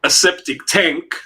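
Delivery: slowed down to land the rhyme; drawn-out rhyming slang explanation; slow rhyme demo. Shown as a demonstration. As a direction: spell out the Yank and septic tank rhyme slowly. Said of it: "we call a yank".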